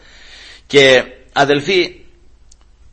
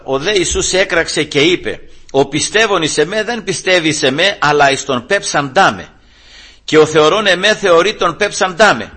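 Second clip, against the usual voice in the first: mildly raised scripture proclamation; 4 semitones higher than usual. Acted. Preacher reads Jesus's cry to the congregation, mildly raised proclamation. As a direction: cry the verse out with restraint. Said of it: "φώναξε ο Κύριος δυνατά".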